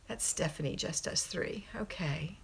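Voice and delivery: a quick unvoiced whisper to herself; whispered aside. Real, not acted. Host whispering to herself while checking viewer names. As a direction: whisper it under your breath.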